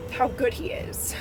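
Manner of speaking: choked-up near whisper; tearful. Real, not acted. Vlogger thanking God, moved near to tears. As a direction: voice catching, almost breathless. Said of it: "I feel like I could cry right now".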